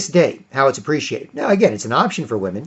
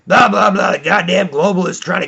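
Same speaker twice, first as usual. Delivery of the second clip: mock ranting; 5 semitones higher than usual. Parodying Alex Jones ranting.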